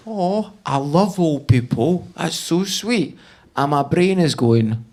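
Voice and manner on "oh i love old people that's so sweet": soppy heart. Acted. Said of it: "my heart is going".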